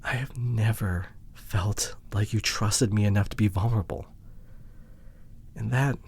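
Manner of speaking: whispered, wounded confession; hurt whisper. Acted. Telling partner they never trusted her, hurt whisper. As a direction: let it slip out in a whisper.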